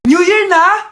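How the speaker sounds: excited announcement. Acted. Mother announces New Year.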